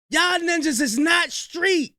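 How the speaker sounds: fired-up yell at the clip; heated shout. Real, not acted. Heated reaction to a rap clip.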